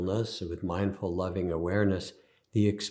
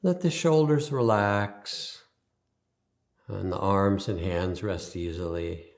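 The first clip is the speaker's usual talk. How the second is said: guided meditation. Acted. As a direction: ease them into stillness, leaving space after each instruction.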